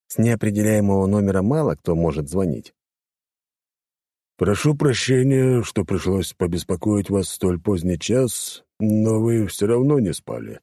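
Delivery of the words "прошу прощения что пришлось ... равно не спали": calm. Acted. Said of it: "спокойный мужской голос".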